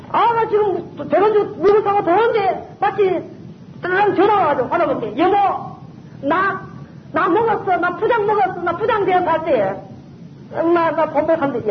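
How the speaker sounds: a husband calling home thrilled about his promotion; mock husband gushing with joy; excited husband. Husband phoning with good news.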